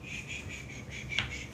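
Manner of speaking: whispered soothing shh; soft shushing. Real, not acted. Calming the newborn kittens with whispered shushing. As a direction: hush the kittens gently.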